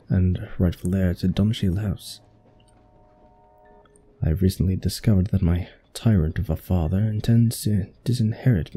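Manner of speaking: put-on lightly done British accent, drifting toward Australian. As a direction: read the villain's plotting in a mild British accent. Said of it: "just default to British".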